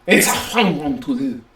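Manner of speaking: hammy fake Italian accent; comic Italian delivery. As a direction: play a stereotyped Italian proudly. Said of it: "Italian accent".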